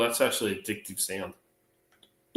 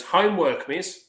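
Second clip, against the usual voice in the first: put-on high little-boy reply; acted child's classroom answer; schoolboy answering; 5 semitones higher, slower than usual. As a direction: pipe up like a pupil to the teacher. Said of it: "He goes".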